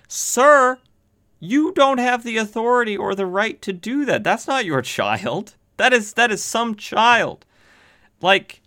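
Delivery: indignant rant. Real, not acted. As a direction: scold him like he's lost his mind. Indignant rant at the store owner.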